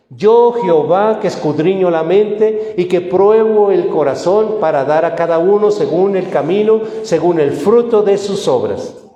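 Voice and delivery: forceful, emphatic divine declaration; Jehová. Acted. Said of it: "Y contesta Dios".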